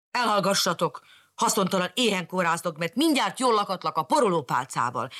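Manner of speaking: mild scolding shout. Acted. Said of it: "kiáltotta nekipirulva".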